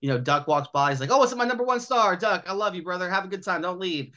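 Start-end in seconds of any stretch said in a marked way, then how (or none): 1.1-4.1 gushing greeting. Acted. Star greeted in a story.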